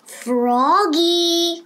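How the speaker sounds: mother calling a third time. A narrator's reading. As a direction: call him from inside. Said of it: "called his mother".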